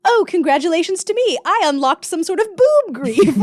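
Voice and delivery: hammed-up fake triumph; mock self-congratulation. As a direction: congratulate yourself with irony.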